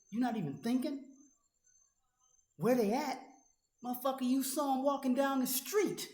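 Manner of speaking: raging at a critic, furious shout. Real, not acted. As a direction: scream the questions at him. Furious rant at a veteran.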